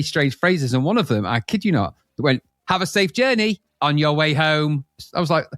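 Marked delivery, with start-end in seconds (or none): 2.7-4.8 slow flat robot voice; a machine voice, slowly; robotic voice. Retold or imitated. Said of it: "in this kind of deaf robotic voice".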